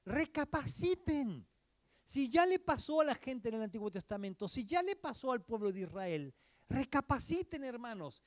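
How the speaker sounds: llamado grave y más alto a recapacitar; solemn warning. Acted. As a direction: exhorta a la congregación con peso. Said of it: "En ese tono está la advertencia". (advertencia solemne a los hermanos)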